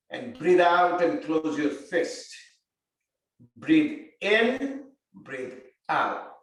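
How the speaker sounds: calm, unhurried breathing cues; guided breathing. Acted. Yoga teacher guiding students through breathing. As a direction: lead the class slowly through each breath.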